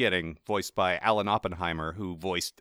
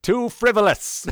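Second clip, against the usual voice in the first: high, loud, drawn-out disdain; fussy scientist; 13 semitones higher, 8 dB louder, slower than usual. Acted. Podcaster as scientist who shuns popcorn, fussy and disdainful. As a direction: declare it slowly, high and scandalized.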